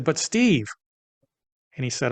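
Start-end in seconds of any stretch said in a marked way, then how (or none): 0.0-0.7 retold protest. Retold protest to his partner.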